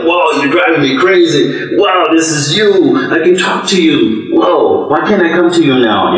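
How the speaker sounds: high, wide-eyed wonder; lightly acted awe at meeting God; awed excitement. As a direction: gasp it out, amazed at the discovery. Excited retold talk to God.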